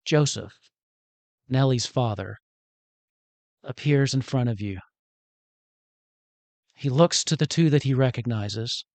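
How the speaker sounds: measured narration with long pauses; solemn storyteller pacing; game master's scene setting. A narrator's reading. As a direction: set the scene in short, weighted phrases.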